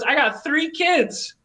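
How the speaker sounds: imitating the scary-looking homeowner grumbling; ratty homeowner voice. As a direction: squeeze it out high like a grizzled guy. Voicing the ratty guy at door.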